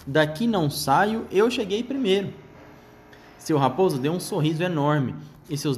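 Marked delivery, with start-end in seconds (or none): 0.1-2.3 high, sharp rat squeak; twitchy squeaking rat voice. Acted. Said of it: "E o rato guinchou de novo".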